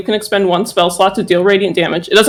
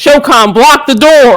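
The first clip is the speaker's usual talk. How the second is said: loud, deliberate, shouted across the room; 4 semitones higher, 5 dB louder than usual. Player's character calling to another character on their turn; yelling. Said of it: "I want to yell to Shokan".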